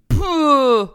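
loud, falling "pouh"; scornful puff of breath; dismissive scoff. Acted. Scoffing in an argued negotiation.

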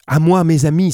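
crié fort et bien plus aigu; appel crié. Acted. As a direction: appelle les amis à pleine voix. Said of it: "s'écria-t-il". (Penellan appelle ses compagnons à grands cris)

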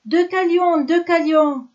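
loud call into the night. A narrator's reading. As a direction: call his son's name from afar. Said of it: "le titan enchaîné appelle".

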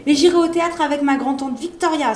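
put-on a girl bursting with excitement; excited cry. A narrator's reading. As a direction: blurt it out with delight. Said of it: "s'écria la fillette".

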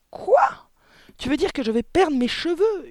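very high, loud shriek of disbelief; panicked yell. A narrator's reading. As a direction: yell in horror at your wife. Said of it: "hurla le mari". (hurlement suraigu et affolé)

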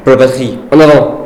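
loud, high rallying shout; battle cry. Acted. Soldier leading the charge out of the trench, shouting. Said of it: "on sort à découvert en criant".

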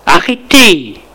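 a touch of a high shout; mild cry. Acted. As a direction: call out to stop her. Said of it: "Il crie".

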